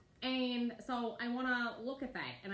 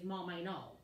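gentle tone; 2 semitones lower than usual. Shown as a demonstration. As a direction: say it kindly to mom. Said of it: "All I have to say is".

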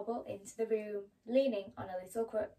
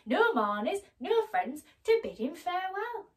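gravedigger; 8 semitones higher, 7 dB louder than usual. Acted. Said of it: "one of them said".

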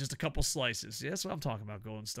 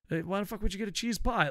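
put-on higher, quick Jersey-accented heckle; mock a buddy in a Jersey accent; 6 semitones higher, faster than usual. Storyteller voices friends arguing over cheese pie, Jersey accent. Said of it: "these Southern guys are talking with a Jersey accent".

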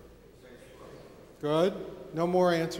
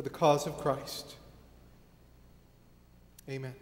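public prayer. Real, not acted. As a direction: lead the congregation in prayer, pausing between phrases. Leads congregation in prayer.

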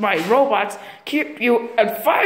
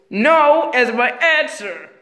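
laughing refusal; 2 semitones higher, 3 dB louder, slower than usual. Pretend. Sonic taunting.

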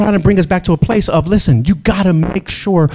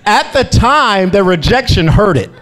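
laughing through it; 4 semitones higher than usual. Real, not acted. Laughing at old heartbreak.

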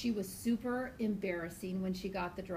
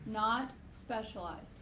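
"Not specialized" slowly, word by word; slow emphatic repeat; slower than usual. Shown as a demonstration. Teacher repeating a key point to students, "Not specialized" slowly.

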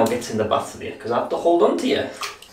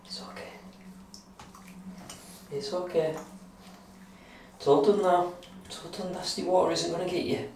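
soft, hushing reassurance; quiet reassurance for the dog; 4 semitones higher, 10 dB quieter than usual. Real, not acted.

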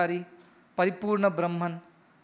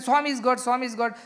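raised, louder mock proclamation; clamouring devotee; 4 semitones higher, 4 dB louder than usual. Mocking devotees making a hangama, raised insistent proclaiming. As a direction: imitate a zealot's insistent repeated chant. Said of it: "make a big hangama out of it".

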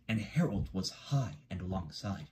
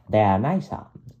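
lightly voiced helicopter; 9 dB louder than usual. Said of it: "said Harold".

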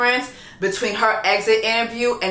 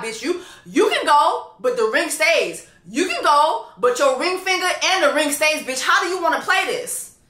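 mock confrontation; 4 semitones higher than usual. Acted confrontation as sister over ring.

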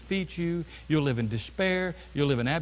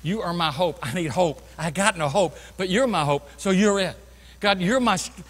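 quiet prayer. Shown as a demonstration. Preacher demonstrating a quiet prayer to God, soft and earnest. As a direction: pray it gently and sincerely. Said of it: "I do sit down with God and I say".

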